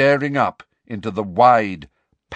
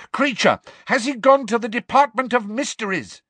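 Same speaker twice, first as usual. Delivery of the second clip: high, urgent raised voice; desperate yell; 13 semitones higher, 4 dB louder than usual. Acted. Harry yells at the elf about Sirius, urgently. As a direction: call it out urgently, pitched high. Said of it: "Harry yelled after the elf".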